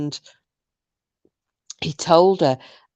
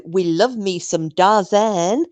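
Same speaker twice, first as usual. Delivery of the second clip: slow, stretched fake American accent; 2 semitones lower, slower than usual. Adapting the catchphrase for Dar, mock American accent.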